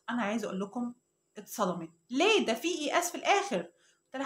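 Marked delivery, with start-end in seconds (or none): 2.1-3.6 a child's mock indignant why, higher; mock indignant protest. The niece protests to her aunt, mock indignant. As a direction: protest like a stubborn little girl.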